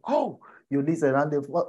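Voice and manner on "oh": high mock-impressed oh; feigned excitement. Mentor reacting to a beginner's revelation, feigned excitement. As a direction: play along, sounding impressed. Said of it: "You go with the excitement".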